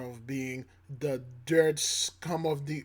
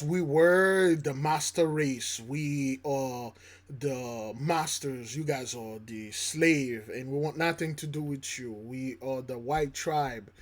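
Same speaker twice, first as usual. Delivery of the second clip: mock supremacist boast; 3 semitones lower than usual. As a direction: lightly play the arrogant colonizer, dragging it out. Voicing white supremacists back then.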